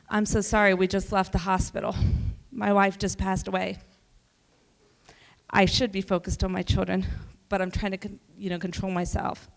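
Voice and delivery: getting choked up while telling it; teary-eyed. Real, not acted. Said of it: "Sorry, I get, like, all teary-eyed".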